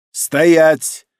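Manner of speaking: loud, abrupt order to halt; halting command. A narrator's reading. Emperor stopping his departing son, sharp command. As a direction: call out one commanding word. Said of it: "остановил он развернувшегося".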